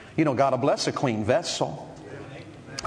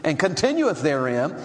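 scripture reading. Acted. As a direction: read the verse with weight, slowing at the end. Preacher reading scripture aloud.

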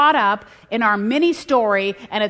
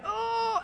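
high strained groan; 14 semitones higher, 7 dB quieter than usual. Retold or imitated. Exhausted player groaning.

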